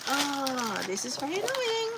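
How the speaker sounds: high, half-joking exasperated sigh of a line; annoyed whine. Retold or imitated. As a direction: whine it like a fed-up complaint. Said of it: "I just feel like".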